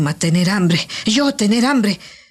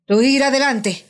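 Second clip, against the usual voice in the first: tense cry; 4 semitones higher than usual. Acted. Wary witch refuses to go first.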